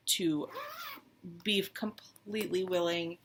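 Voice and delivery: whisper. Real, not acted. Moved, whispering about faith.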